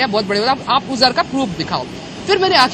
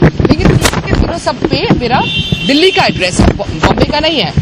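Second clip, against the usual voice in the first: retold protest, louder; raised voice; 5 dB louder than usual. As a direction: push back loudly at the constable. Arguing with constable. (Constable से ऊँची आवाज़ में बहस)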